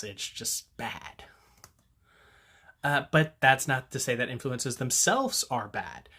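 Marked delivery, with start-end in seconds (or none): 0.0-1.2 whispered aside. Real, not acted. Muttered dismissive aside.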